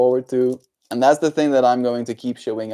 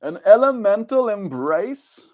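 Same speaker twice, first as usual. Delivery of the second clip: surprised; 10 semitones higher, 6 dB louder, slower than usual. Real, not acted. Surprised rereading.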